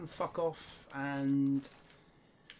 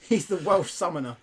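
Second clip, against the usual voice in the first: put-on partial Welsh accent; 3 semitones higher, 7 dB louder than usual. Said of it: "it was partially Welsh".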